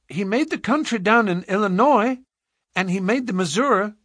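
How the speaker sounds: put-on high piping child voice; small girl earnestly explaining; matter-of-fact little girl. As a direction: reason it out with childish certainty. Little girl's voice.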